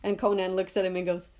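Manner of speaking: ordinary talk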